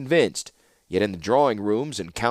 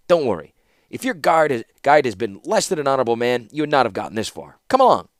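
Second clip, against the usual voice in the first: hint of a brisk limping scholar, ending raised; lightly voiced Felden; 3 semitones higher, 4 dB louder than usual. Scholar reassuring a newcomer about her guide, lightly voiced.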